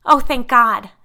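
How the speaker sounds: high, loud cry of relief; sobbing relief. A narrator's reading. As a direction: cry out as if rescued. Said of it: "Allison sobbed".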